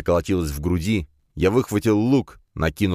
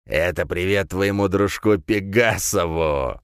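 sneering villain; slower than usual. Acted. Villain taunts with severed head.

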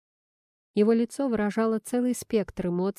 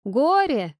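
a louder, higher call from another room; 5 semitones higher, 5 dB louder than usual. A narrator's reading. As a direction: call out to someone down the hall. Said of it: "позвала она из коридора". (оклик из коридора)

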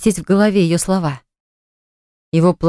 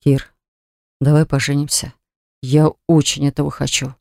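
heartfelt, tender proposal; с чувством; 4 semitones lower than usual. A narrator's reading. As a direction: say it earnestly, lovingly. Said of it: "проговорил с чувством". (с чувством, искренне)

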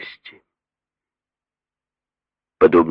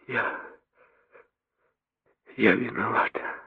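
soft, higher, voice breaking; broken whisper; 6 semitones higher, 8 dB quieter than usual. A narrator's reading. Mary blaming herself, breaking whisper. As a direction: barely get it out. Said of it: "прошептала она обрывающимся голосом".

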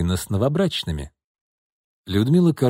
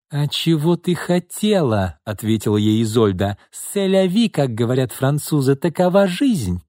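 put-on cool older sister; 5 semitones higher than usual. Cool sister answers ranting sister.

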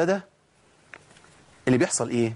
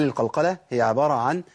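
quoting slowly; slower than usual. Retold or imitated. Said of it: "قال الشيخ جلال الحنفي".

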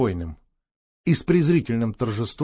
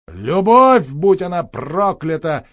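bitter outburst; 4 semitones higher, 7 dB louder, slower than usual. Acted.

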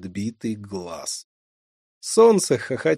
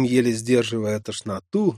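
ordinary delivery

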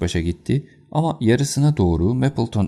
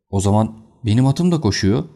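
excited shout; 3 semitones higher, 4 dB louder than usual. Acted. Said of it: "diye bağırdı albay büyük bir heyecanla".

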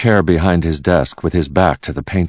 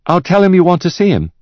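much higher-pitched secretary; secretary's voice; 14 semitones higher, 4 dB louder, faster than usual. Acted. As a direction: report promptly in a high secretary voice. Secretary answers her shouting boss.

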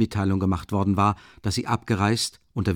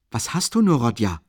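higher, anxious; worried Rasumichin; 3 semitones higher, 4 dB louder than usual. Acted. Rasumichin asking Rodja in worry, higher. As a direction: ask in concern.

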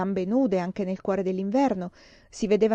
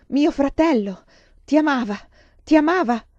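loud, high accusing cry; impassioned, pitched-up shout; anguished fury; 6 semitones higher, 7 dB louder than usual. A narrator's reading. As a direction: hurl it out in raging grief. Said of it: "ruggì Vasili".

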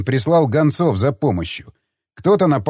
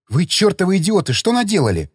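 raised-pitch reproach; indignant scolding; 5 semitones higher than usual. Acted. Woman walking in on the attack, indignant scolding. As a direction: tell them off, exasperated.

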